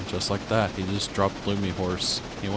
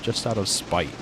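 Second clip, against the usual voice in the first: sneering panto villain; 2 semitones lower, 4 dB quieter than usual. Pretend. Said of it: "Mwahaha, I'm evil".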